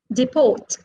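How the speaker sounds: "Deport" said de-PORT; stress on second syllable. Shown as a demonstration. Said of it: "are stressed on the second syllable".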